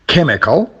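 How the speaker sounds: Chemical with CHEM stressed; CHEM-ical, as a stress demo; stress on first syllable. Shown as a demonstration. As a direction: hit the start of Chemical. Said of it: "it's at the beginning".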